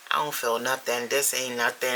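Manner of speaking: unimpressed mock quote; dismissive. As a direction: play the unimpressed first-timer. Imagined first-timer dismissing the edible.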